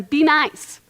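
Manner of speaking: whispered, singsong parent nag; hushed mock scolding; mock nagging. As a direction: imitate a tired parent saying be nice. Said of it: "rather than".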